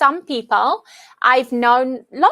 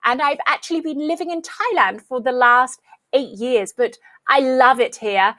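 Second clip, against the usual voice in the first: strong British accent. Shown as a demonstration. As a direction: put on a very posh British accent. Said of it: "very strong British accent. It's like".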